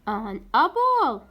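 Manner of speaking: slow classroom demo; slow model reading. Shown as a demonstration. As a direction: stretch each word for the class. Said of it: "A تجي قبلها an".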